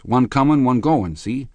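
high-pitched, insistent explaining; eager witness. A narrator's reading. Michaelis explaining the two cars to the policeman, high eager witness voice.

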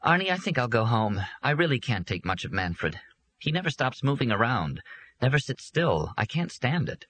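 a worn-out guest wanting to leave; lightly voiced tired Doreen; tired woman.

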